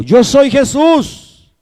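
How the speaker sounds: high, measured declaration; Jesus answering from heaven. Acted. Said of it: "Y le dijo".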